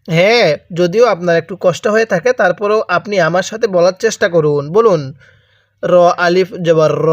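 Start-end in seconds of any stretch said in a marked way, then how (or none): 5.8-7.1 র said short, not stretched to রা. Shown as a demonstration. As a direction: keep র clipped, no long vowel. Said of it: "আমি কিন্তু রা পড়তেছি না".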